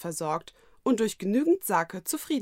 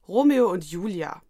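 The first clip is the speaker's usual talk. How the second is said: widerwillig; 5 dB louder than usual. A narrator's reading. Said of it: "Man hörte ihm an, dass ihm diese Tatsache ganz und gar nicht passte".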